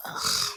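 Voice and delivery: low-key "ugh" of distaste; disgusted groan. Retold or imitated. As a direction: groan quietly at the memory. Disgust at school uniform.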